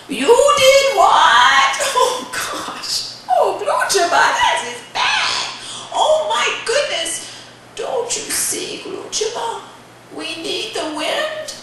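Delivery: very high-pitched dismay; appalled grandmother. Acted.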